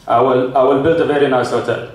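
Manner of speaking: lightly voiced Arab client; Arab accent. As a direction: put on a mild Arab accent. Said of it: "An Arab guy would be like".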